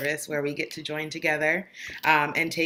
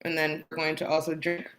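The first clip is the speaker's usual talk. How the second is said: talking through a mouthful of bread; mouth full. Real, not acted. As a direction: speak around a bite of food. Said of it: "He talked my mouth full".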